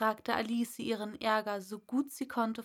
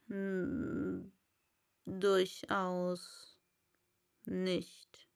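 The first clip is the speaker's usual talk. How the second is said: Raupe; 2 semitones lower, much slower than usual. Acted. Raupe voiced.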